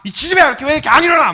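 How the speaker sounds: loud, high-pitched scolding rant; hammed-up furious mom; mock angry mother. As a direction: act out mom blowing her top. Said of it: "막 승질을 내시면서 막 그러셨어요".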